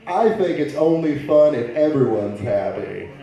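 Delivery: lightly hammed-up corporate interview answer; mock a job candidate reciting buzzwords, punching the key words; a hint of overkeen candidate; eager job interviewee. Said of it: "people say stupid shit like".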